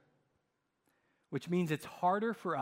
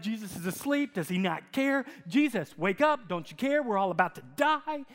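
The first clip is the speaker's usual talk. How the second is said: panicked disciples; 4 semitones higher, 4 dB louder than usual. Retold or imitated.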